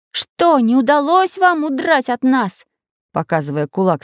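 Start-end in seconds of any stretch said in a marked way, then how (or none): 0.1-2.7 Prutik's voice. A narrator's reading. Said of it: "спросил Прутик".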